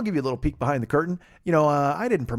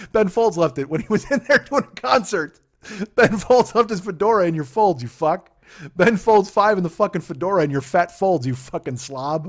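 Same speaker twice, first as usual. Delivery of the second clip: yelling; 6 semitones higher, 8 dB louder than usual. Acted. Ranting insult at neighbor.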